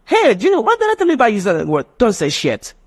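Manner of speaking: high-pitched mock scolding, easing down by the end; scolding mom, Clock English example. Mom correcting child's swearing, scolding. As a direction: scold like a mother, starting high. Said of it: "the mom say".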